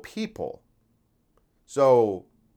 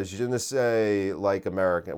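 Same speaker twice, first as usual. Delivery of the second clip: put-on French accent; 4 semitones lower than usual. Imitating a French guy fumbling for words, French accent. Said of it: "like, a French guy who's like".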